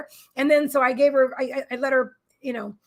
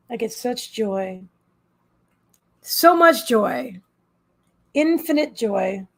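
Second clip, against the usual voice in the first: slow heartfelt joy; 2 semitones lower, 4 dB louder, much slower than usual. Real, not acted. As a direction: draw each word out slowly, full of feeling. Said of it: "I wanna cry".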